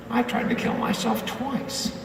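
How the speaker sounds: half-whispered retold confession; hushed confession. Woman's quiet confession, retold.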